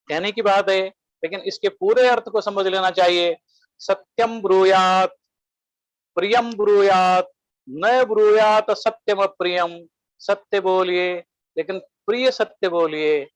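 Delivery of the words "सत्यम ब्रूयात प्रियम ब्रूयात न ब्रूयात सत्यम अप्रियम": sanskrit quotation. Shown as a demonstration. Quoting a Sanskrit maxim slowly.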